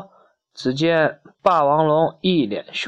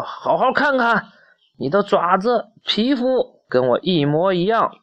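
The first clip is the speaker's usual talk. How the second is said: insistent dinosaur, pitched up from the narration; higher storybook character voice, lightly acted; lightly voiced Tyrannosaurus; 4 semitones higher than usual. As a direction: press the point as the storybook Tyrannosaurus.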